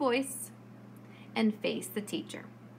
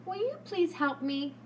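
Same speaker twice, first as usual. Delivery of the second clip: respectful voice; 6 semitones higher than usual. Shown as a demonstration. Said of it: "Use a respectful voice and say".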